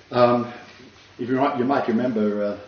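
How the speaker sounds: breathless, pausing between phrases; out of breath. Real, not acted. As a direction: talk while catching your breath. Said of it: "I'm out of breath".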